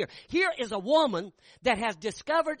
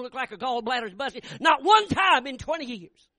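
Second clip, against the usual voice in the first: earnest wife; 3 semitones higher, 7 dB louder than usual. Retold or imitated. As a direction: deliver her tribute with full preaching force. Wife's tearful confession to husband.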